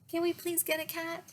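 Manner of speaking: put-on high, pleading kid voice; begging child. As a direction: beg like an eager child.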